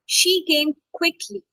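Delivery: slow lead-in, QUICKLY picked out; stress on QUICKLY. Shown as a demonstration. Teacher giving an adverb example, stress on QUICKLY. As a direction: make the adverb QUICKLY stand out. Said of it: "Now, adverbs".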